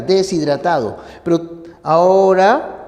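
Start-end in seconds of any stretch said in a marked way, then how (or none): 0.0-1.0 "deshidratado" seguido, con la s unida a la i; pronunciación correcta. Shown as a demonstration. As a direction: di "deshidratado" como de-sidratado, sin corte. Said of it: "debe ser así". ("deshidratado" fluido, de-si-dra-ta-do)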